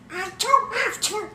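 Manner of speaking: lifeless, drained monotone; dead voice. Acted. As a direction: say it like you have no life left. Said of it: "That's your dead voice, huh?".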